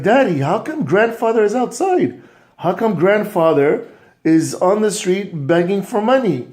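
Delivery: put-on high, urgent child's plea; upset boy. Boy asking his father about grandfather, upset. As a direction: call out to Daddy in disbelief.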